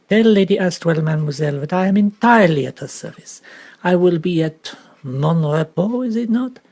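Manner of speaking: lightly voiced Belgian detective, precise and polite; a hint of Poirot, courteous correction; Poirot's French accent. Detective gently correcting the girl, lightly French.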